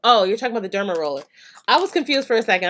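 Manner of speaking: fast, loud sudden realization; excited realization. Real, not acted. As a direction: snap to it with an excited rush.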